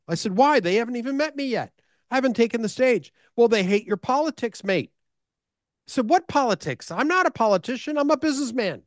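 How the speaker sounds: high, indignant disbelief; mock outraged retort; incredulous protest. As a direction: protest in wide-eyed disbelief. Retold indignant reply to host.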